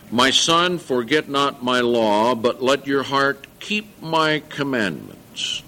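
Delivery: solemn Bible reading voice; scripture reading. Acted. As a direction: read it out with weight.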